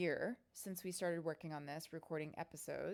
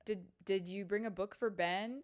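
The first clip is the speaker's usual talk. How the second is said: peppering someone with reminders, pitched up; imitating co-host; 3 semitones higher, 3 dB louder than usual. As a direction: lightly mimic a friend checking in. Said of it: "Katie would be like".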